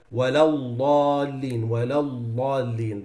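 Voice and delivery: وَلَا الضَّالِّينَ with the dad said as a heavy lam. Shown as a demonstration. Teacher showing the forbidden lam sound. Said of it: "That's not allowed".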